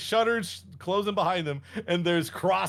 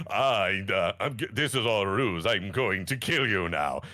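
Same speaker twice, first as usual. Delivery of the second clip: fumbling cultist; 9 semitones lower than usual. Retold or imitated. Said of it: "he had this whole demeanor".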